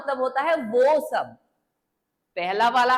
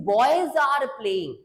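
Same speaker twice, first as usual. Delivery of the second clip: slow demo; much slower than usual. Shown as a demonstration. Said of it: "अगर मैं बोलूं कि".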